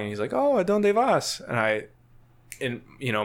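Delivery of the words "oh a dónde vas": high, drawn-out friendly question with a smile; slow, high-pitched mock-friendly checkpoint greeting; imitated smiling guard.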